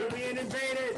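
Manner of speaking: loud, high mock alarm; excited shout. Real, not acted. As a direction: shout it like an invasion. Guest bursts into the studio.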